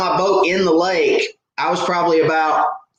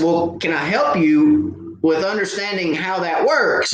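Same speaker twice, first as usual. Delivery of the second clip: sarcastic offer; 2 semitones higher than usual. Retold or imitated. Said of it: "he kinda caught the sarcasm".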